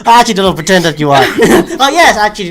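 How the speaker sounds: laughing while teasing. Real, not acted. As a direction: talk through real laughter. Teasing co-host about voice acting.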